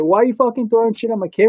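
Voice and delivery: hammed-up angry mom accusing the kids; bitching mom. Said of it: "she's just fucking bitching at us".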